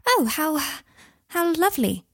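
high, loud gushing coo; gushing witch voice. A narrator's reading. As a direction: gush over the child like a fond witch. Witch gushes over child.

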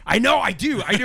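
raspy, growly voice. Real, not acted. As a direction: let the rasp show. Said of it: "I got this, like, raspy voice".

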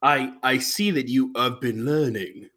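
slow mock English accent; bad English accent. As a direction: imitate a wobbly English accent, taking it slowly. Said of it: "through an English accent with zero consistency".

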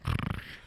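mock snore of a peaceful sleeper; quick pretend snore; imitated snore. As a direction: imitate someone snoring in deep sleep. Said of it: "is snoring so peacefully".

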